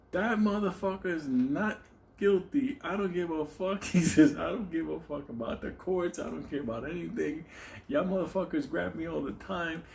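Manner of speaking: ranting. Retold or imitated. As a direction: go off on the court defiantly.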